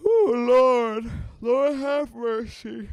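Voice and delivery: loud, high, drawn-out wail; weary exclamation. Real, not acted. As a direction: groan it out loud and high, stretching the words. Tired groan after two shows.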